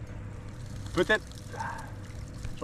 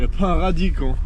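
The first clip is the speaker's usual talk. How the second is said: frustrated shout; 6 semitones higher, 6 dB louder than usual. Real, not acted. Frustrated after losing fish.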